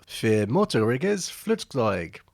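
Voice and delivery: slow, careful German accent on the words. Shown as a demonstration. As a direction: say it like a German would, drawn out. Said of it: "in my best German accent".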